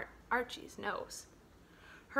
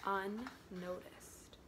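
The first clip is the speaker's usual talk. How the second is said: hushed; 4 semitones lower, 12 dB quieter, much slower than usual. A narrator's reading. Erin sinks unseen.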